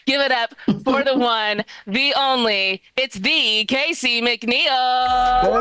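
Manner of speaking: stretched-out announcer build to the name; MC introduction. Real, not acted. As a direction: bring the comedian on, drawing out the name. Introducing the first comedian to stage.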